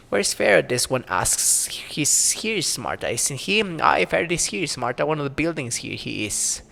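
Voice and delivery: lightly voiced old crone, muttering to herself; a hint of a grumbling crone; mumbling old crone. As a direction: play a cranky old hag talking to herself. Marta answers about Farrod.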